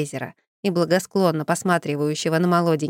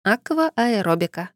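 curt; 3 semitones higher, slower than usual. Acted. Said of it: "отрезала я".

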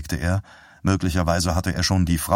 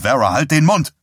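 louder, higher, exasperated; husband snaps at his praying wife, shouted; shouted rebuke; 7 semitones higher, 6 dB louder than usual. Acted.

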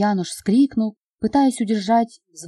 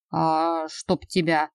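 раздражённо; 2 semitones lower, much slower than usual. Acted. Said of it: "раздражённый мародёр".

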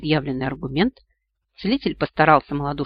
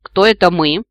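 a louder, wary rising question; suspicious question; 2 semitones higher, 8 dB louder than usual. Acted. Max on the branch questioning the voices, suspicious. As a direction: sound doubtful who's calling. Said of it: "подозрительно спросил тот".

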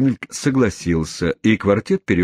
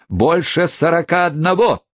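sharp mocking jab, higher pitch; scornful retort; 10 semitones higher than usual. A narrator's reading. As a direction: throw the insult with contempt. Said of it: "презрительно воскликнул Орд".

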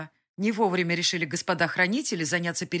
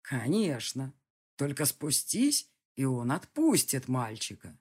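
lower, very slow cold threat; a distant villain in no hurry; menacing villain; 3 semitones lower, slower than usual. Acted. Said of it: "прозвучало в ответ". (низкий угрожающий голос злодея)

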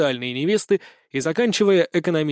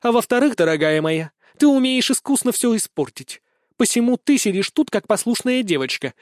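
stern; 6 semitones higher than usual. A narrator's reading. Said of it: "строго произнесла Елена Прокопьевна".

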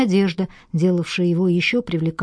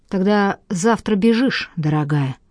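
demanding. Acted. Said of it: "требовательно произнесла Марина".

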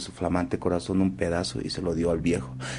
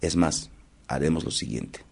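condor voice; 4 dB louder than usual. Acted. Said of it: "Y el cóndor le dice".

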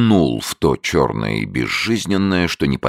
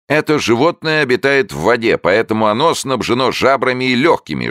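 high, loud hoarse barker; hoarse showman; 8 semitones higher, 3 dB louder than usual. A narrator's reading. Showman continuing to the crowd, high hoarse barker voice. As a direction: croak it out to the audience, pitched up.

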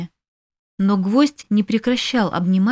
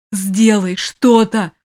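louder, slow demanding shout; an imp roaring a demand; desperate yell; 5 dB louder, slower than usual. A narrator's reading. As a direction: yell at him to act. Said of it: "заорал бес".

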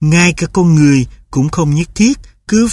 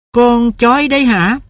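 higher, sharp mother's voice; mother's cold question; 8 semitones higher than usual. A narrator's reading. Mother questions son about the dog, higher and sharp.

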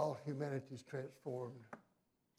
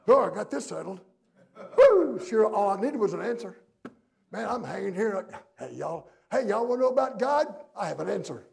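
loud, raised, hammed-up holler; mock boastful calling-out; 6 semitones higher, 13 dB louder than usual. Preacher playing a cocky Jesus to onlookers, mock calling-out. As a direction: call out loudly as if to onlookers below. Acted mock speech from the cross.

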